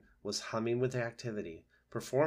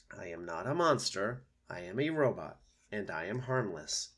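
a hint of measured reassurance; calm robot. Robot reassuring frightened opossum, calm and even.

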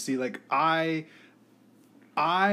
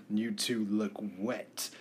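lightly voiced creepy Igor, slow and soft; a hint of a slow, quiet Igor servant; Riff Raff; 3 semitones lower, 6 dB quieter, slower than usual. Greeting soaked couple at the door, mock Igor voice. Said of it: "like, Igor guy, you know, riffraff".

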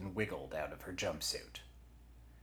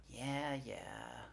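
higher, softer offhand voice; grudging; 7 semitones higher, 6 dB quieter than usual. Acted. Forearm takes orders from Eugenia, grudging. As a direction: brush it off and get to work.

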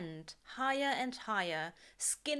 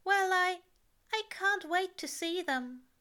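higher, louder, stammering eagerness; sincere angel tripping over words, pitched up; Aziraphale voice; 11 semitones higher, 4 dB louder than usual. A narrator's reading. Angel telling Crowley he longs to see the stars, eager and higher.

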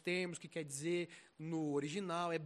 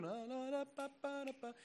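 singsong babbling la-la; 5 semitones higher, 8 dB quieter than usual. Acted. Sinner tuning out God's voice.

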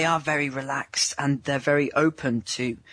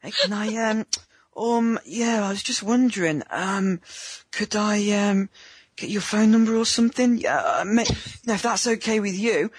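higher, stammering and hesitant; nervous hesitant guy; 5 semitones higher than usual. Pretend. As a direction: play a guy fumbling for her number. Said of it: "guys just say the craziest thing".

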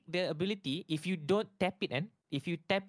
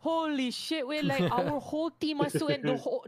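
excited; 10 semitones higher, 4 dB louder than usual. Real, not acted. Excited retelling of game.

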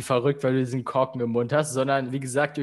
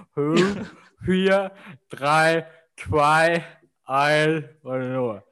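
talking around a cork in mouth. Real, not acted. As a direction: speak with a cork between the teeth. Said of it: "Oh, mein Unterkiefer".

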